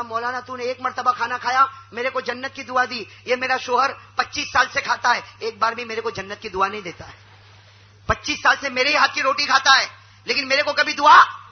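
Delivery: wife's complaint building to a loud high outburst; hurt wife scolding her husband in front of the guest; aggrieved wife. Retold or imitated.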